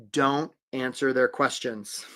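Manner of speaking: slow, low and deliberate; measured, quietly weighty delivery; dramatic reveal. Real, not acted. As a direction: let each word land gravely. Advice revealed slowly, then repeated loudly.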